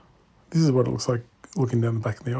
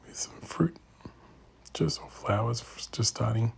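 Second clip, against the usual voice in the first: soft unvoiced whisper; hushed aside at a bonsai show; 5 dB quieter than usual. Real, not acted. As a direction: murmur it so others nearby won't hear. Quiet remark at bonsai show.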